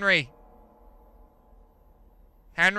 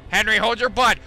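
louder, higher urgent warning; urgent plea; 4 semitones higher, 4 dB louder, faster than usual. Real, not acted. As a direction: brace your pet in alarm. Elevator plunging.

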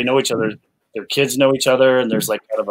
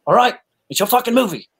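much higher, mock fed-up concession; exasperated giving in; 12 semitones higher than usual. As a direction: throw up your hands and give in. Oldman gives in to Fincher.

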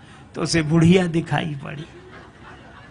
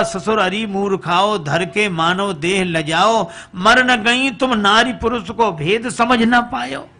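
rhythmic rebuke, rising higher at the end; scolding verse; 4 semitones higher, 3 dB louder than usual. Acted. Father-in-law rebukes both foolish women, scolding in verse. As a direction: chide them in chanted verse, building in pitch. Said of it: "दोनों को फटकारा".

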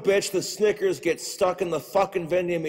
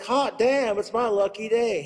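higher, louder delighted cheer; gleeful cheer; 5 semitones higher, 3 dB louder than usual. Retold or imitated. Next customer finding two Snickers, gleeful cheer. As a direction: celebrate the free candy bar. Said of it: "He's gonna be like".

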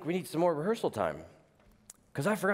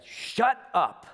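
sudden higher, louder shout at the radio; retold snap; 6 semitones higher, 4 dB louder than usual. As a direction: bark it at yourself, half-joking. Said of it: "and I said".

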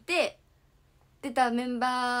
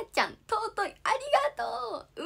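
emotional thanks; 12 semitones higher, 5 dB louder than usual. Real, not acted. Thanking fans for gifts.

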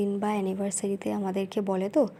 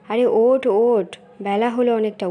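louder, sharp "ওঠ" to wake them; impatient shout; 2 semitones higher, 6 dB louder than usual. Acted. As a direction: yell them out of bed. Mother losing patience with sleepers. (বিরক্ত হয়ে জোরে ডাক)

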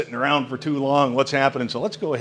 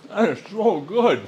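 rapturous; 7 semitones higher than usual. Real, not acted. Tasting prime rib.

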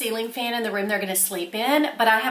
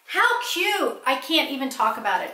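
gushing; 3 semitones higher than usual. Real, not acted. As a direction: squeal it with delight. Gushing over compact.

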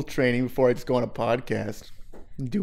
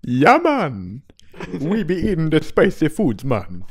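mock Jamaican accent; 4 semitones higher, 3 dB louder than usual. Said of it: "do a Jamaican accent for us".

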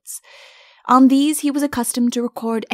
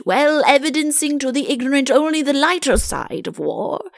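higher, lightly voiced fussy courtier; pompous chancellor; 5 semitones higher than usual. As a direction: hold forth like a learned official.

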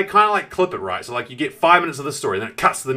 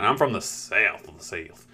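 thick, slowed Southland New Zealand accent; slow South Island drawl; 4 semitones lower, slower than usual. Shown as a demonstration. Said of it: "with my horrible accent".

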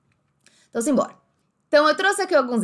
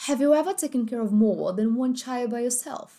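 "more" with the final r dropped, like "maw"; British accent. Shown as a demonstration. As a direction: say "more" with no r at the end. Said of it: "Agora, britânico". ("more" sem o r, britânico)

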